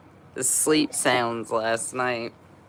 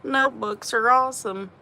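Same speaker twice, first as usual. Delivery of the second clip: much higher, bright excited recall; excited thought; 11 semitones higher than usual. Retold or imitated. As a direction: replay the sudden idea way up high. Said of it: "I know both times I was like".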